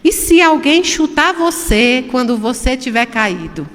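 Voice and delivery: slow, weighted reading of the line; reading out the book's hard lesson, slowly; reading the quote slowly. Shown as a demonstration. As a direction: lay each word down deliberately. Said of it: "presta atenção que essa é dura".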